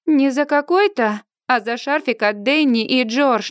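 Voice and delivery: haughty, stressed correction; scornful correction. Acted. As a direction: put him in his place. Scornful reply to ignorant boyfriend.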